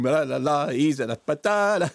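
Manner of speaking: exaggerated London-accent parody; mock cockney. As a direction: stretch it into silly stage-cockney la-las. Mocks the actor with nonsense cockney.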